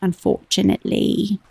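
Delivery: put-on amateur British accent; American trying a British accent; attempted British accent. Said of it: "everything sounds so much better in a British accent".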